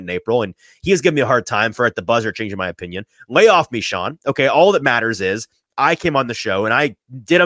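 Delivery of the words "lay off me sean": louder and higher, a playful protest; mock exasperation. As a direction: throw up your hands in a jokey plea to back off. Joking complaint at quarterback coach.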